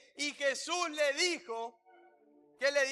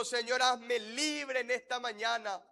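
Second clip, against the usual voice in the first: emphatic prayer line for repeating; led prayer. Real, not acted. Pastor giving the congregation words to pray, led prayer. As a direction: lead the church phrase by phrase.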